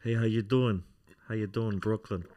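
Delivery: lightly put-on Brooklyn accent. Shown as a demonstration. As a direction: try a casual Brooklyn greeting. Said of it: "Let's hear a Brooklyn accent".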